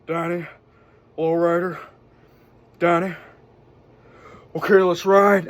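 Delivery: lightly imitated action-film star, words spaced out by long pauses; understated movie-quote impression; Nick Cage. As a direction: drop lone words, pause, then give the go. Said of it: "give you a quick Nick Cage".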